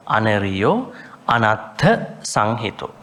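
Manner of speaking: slow chant-like recital with drawn-out syllables; measured, lilting scripture reading for a class; Pali recitation. Shown as a demonstration. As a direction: recite syllable by syllable, pausing after each phrase.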